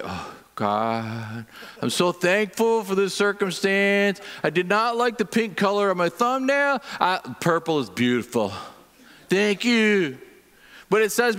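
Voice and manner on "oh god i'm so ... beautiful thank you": sarcastic thanks after hitting a thumb; hammed-up fake-cheerful prayer; mock gratitude. Preacher mocking thanks for a smashed thumb, sarcastic. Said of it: "I do not say".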